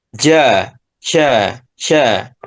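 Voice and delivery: Ja slipping into sha, the jim flowing like shin; wrong jim like shin. Shown as a demonstration. Teacher imitates wrong jim that sounds like shin. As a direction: show the mistake: Ja sliding to sha. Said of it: "Jadi seperti shin".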